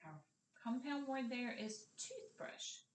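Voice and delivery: usual speaking voice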